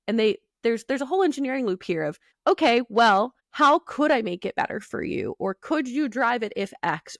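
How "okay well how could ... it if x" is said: eager engineer, louder and higher; imitating an engineer. Engineer asking the driver what would help, eager and loud. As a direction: play the keen engineer offering to fix it.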